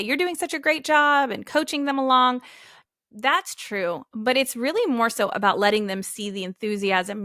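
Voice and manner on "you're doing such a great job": higher, mildly acted encouragement; enthusiastic praise. Shown as a demonstration. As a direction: cheer them on like a coach. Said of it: "be enthusiastic with them and say".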